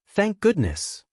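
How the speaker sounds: high, slow and breathless. A narrator's reading. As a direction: gasp it out in relief. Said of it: "the girl says breathlessly".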